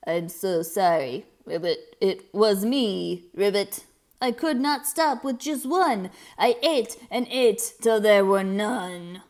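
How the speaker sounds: a sorry toad owning up; grumpy toad. Acted. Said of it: "Grumpy Toad".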